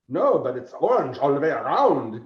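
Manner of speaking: lightly imitated German sidekick; bad German accent. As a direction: answer back in a poor German accent. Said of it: "He has a bad German accent".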